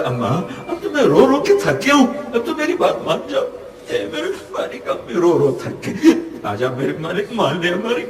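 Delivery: put-on high, wailing child's plea between sobs; crying child. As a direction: beg like a worn-out crying kid. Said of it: "جیسے بچہ روتے روتے اماں سے کہتا ہے".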